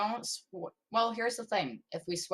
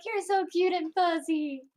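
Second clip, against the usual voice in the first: higher, lightly squealed repeat; mild squeal; 9 semitones higher, 3 dB louder than usual. Retold or imitated. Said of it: "just be like".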